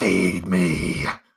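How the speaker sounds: deep, guttural growl from the throat. A caged vampire slams against the bars and speaks: guttural growling voice. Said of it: "a guttural, growling voice just says".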